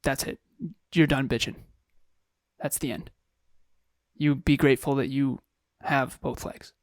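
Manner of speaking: stern self-talk. Retold or imitated. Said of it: "this is my self-talk".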